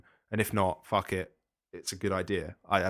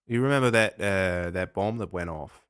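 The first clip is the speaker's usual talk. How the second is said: put-on Australian accent. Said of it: "you were indulging your Australian accent there".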